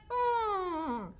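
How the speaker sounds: high humming growl; bear growl. Shown as a demonstration. Teacher leading bear verse, humming growl. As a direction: growl lightly on a high note. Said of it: "hear the bears growling".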